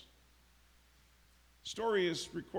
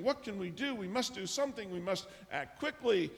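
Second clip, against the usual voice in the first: mildly anxious, higher-pitched pleading; 4 semitones higher than usual. Retold or imitated. Anxious assistant asks what to do, mildly agitated. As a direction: voice a touch of worry, pitched up. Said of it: "she's anxiously pacing about".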